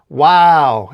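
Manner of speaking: loud, drawn-out wow; impressed shout; amazed yell. Acted. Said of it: "as Spider-Man yells".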